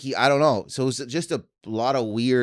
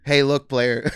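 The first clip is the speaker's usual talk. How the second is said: louder, playful London put-on; mock London accent; 3 semitones higher, 7 dB louder, slower than usual. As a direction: toss it out as a London player. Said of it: "I just got back from London".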